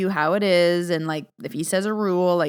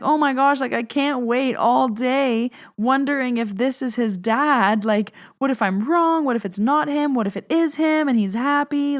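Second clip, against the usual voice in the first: higher-pitched, retold anxious excitement; eager anticipation; 5 semitones higher than usual. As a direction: replay the can't-wait worrying. Retelling her anxious anticipation.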